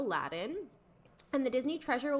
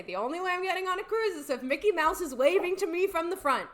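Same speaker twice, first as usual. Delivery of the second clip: emphatic retold quote; 7 semitones higher, 4 dB louder than usual. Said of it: "I say".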